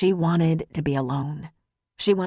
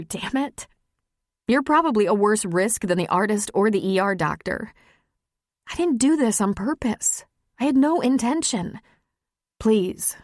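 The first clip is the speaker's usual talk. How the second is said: woman confessing love, voice pitched higher; vulnerable, insistent Maggie; 4 semitones higher than usual. Acted. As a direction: plead and demand an answer from your lover.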